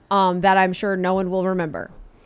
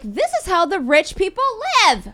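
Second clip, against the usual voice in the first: high, grand lifestyle gush; posh exclaim; 10 semitones higher than usual. Retold or imitated. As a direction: marvel like a rich person. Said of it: "I'm like".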